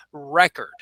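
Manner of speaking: 「record」を頭強勢で; model word for class. Shown as a demonstration. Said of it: "say this word with me".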